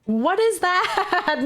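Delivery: slow, high, stretched-out mock Aussie "What is that?"; mock Aussie accent. Streamer mocking how Aussie Filipinos sound, slow exaggerated Aussie accent. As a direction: drawl it out like a caricatured Aussie. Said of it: "Aussie Phillies be like".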